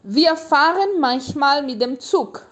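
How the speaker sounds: slow, clear, for repeating; measured teacher read-aloud; slow model reading. Shown as a demonstration. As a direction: read it slowly so learners can echo. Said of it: "Eu vou ler ele de novo pra você poder repetir".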